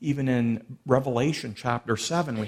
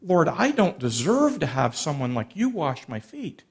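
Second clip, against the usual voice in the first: embarrassed, shocked Peter; 2 semitones higher than usual. Retold or imitated. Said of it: "kind of embarrassed, kind of shocked, going".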